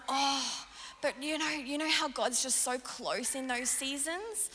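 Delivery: high, gushing imitation of the pastor. The pastor gushing about God's closeness, high mock enthusiasm. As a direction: gush like an overeager mentor. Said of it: "He's like".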